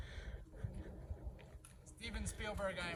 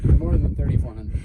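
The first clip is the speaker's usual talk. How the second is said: raised voice in the wind; shouting over wind; 14 dB louder than usual. Real, not acted. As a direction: call out over gusts. Windy summit.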